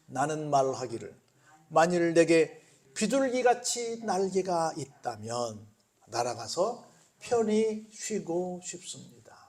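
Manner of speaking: slow, measured reading of the psalm; scripture reading. Acted. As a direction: read the verse aloud slowly and gently. (천천히 성경 구절을 낭독)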